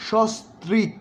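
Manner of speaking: সস্ত্রীক with the first স said as শ; pronunciation demo. Shown as a demonstration. Teacher repeating সস্ত্রীক with a sh sound. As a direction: say সস্ত্রীক as shostrik. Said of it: "তালব্য স দিয়ে".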